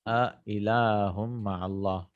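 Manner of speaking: A ilahum ma'allah drawn out slowly and softly, each word lengthened; slow recitation. Shown as a demonstration. Teacher to students, reads "A ilahum ma'allah" slowly and softly. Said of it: "For example".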